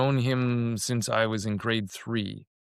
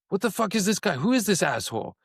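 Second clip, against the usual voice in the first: mock outrage; 7 semitones higher than usual. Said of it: "the other guy reads it as".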